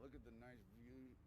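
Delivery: talking around a cigarette; words slurred round a cigarette; cigarette in mouth. Real, not acted. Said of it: "I have a cigarette in my mouth".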